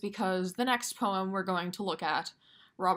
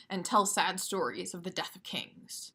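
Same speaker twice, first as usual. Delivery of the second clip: natural actor reading. Shown as a demonstration. Teacher showing how an actor speaks the line, natural. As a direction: say it like an actor, not a metronome. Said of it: "An actor who's reciting these lines of Shakespeare might say".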